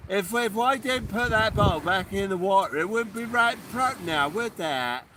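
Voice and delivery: hammed-up West Country farmer, loud and bouncy; mock Somerset accent. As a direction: play a jolly Somerset yokel. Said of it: "Is that what they sound like in Somerset".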